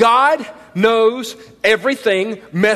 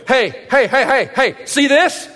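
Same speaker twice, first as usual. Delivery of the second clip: taunting Satan; 5 semitones higher than usual. Retold or imitated. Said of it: "Satan's going".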